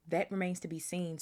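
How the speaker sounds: smug, sly menace with a smile; nasty smile. Acted. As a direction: let a cold grin into it. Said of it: "with a nasty smile".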